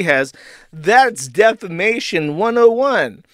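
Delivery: mock official statement. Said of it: "Keemstar goes out ... and says".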